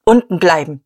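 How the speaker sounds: loud curt order; commanding. Acted. Diederich ordering mother and sister to stay downstairs, loud command. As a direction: bark the order down the stairs. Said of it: "befahl er".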